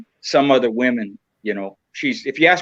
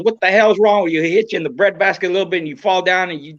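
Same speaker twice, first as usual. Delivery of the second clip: scolding wife; 5 semitones higher than usual. Retold or imitated. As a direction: imitate his wife chewing him out after the loss. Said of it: "she goes".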